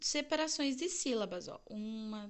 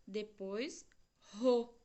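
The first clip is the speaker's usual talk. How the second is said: "car" e "ro" ditos devagar e destacados; syllables separated; 2 semitones lower, much slower than usual. Shown as a demonstration. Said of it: "vamos separar ela em sílaba". (separação silábica lenta)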